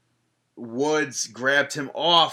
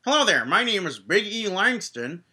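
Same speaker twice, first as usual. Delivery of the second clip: Big E impression; 6 semitones higher than usual. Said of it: "No, that sounds awful".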